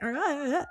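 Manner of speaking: high, soft imitation of a yelp; half-hearted, quiet stab at a weird cry; mock weird yelp. Podcaster vaguely recalling a politician's noise, mock weird yelp. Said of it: "made that weird sound".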